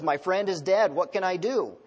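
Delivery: mild mock panic. Hunter calling 911 about his friend, mildly panicked. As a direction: lightly act a panicking caller. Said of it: "He kind of panics".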